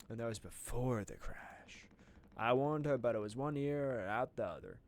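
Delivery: lightly voiced southern character; southern accent. Streamer reading game dialogue in a southern accent. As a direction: complain about the nurse in a southern accent. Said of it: "I'm doing a lot of southern accents".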